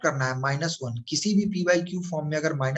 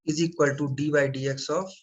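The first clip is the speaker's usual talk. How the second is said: very slow, word by word, as if writing it down; slow dictation; much slower than usual. Shown as a demonstration. Teacher dictating to students while writing, very slow. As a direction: spell it out slowly for students copying.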